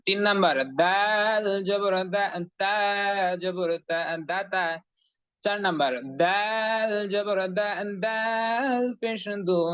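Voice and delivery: slow sing-song syllable chanting; recitation drill. Shown as a demonstration. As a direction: chant each syllable slowly for the class. Teacher leads syllable recitation drill.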